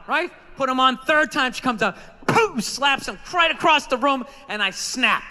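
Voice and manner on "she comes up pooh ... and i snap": ordinary delivery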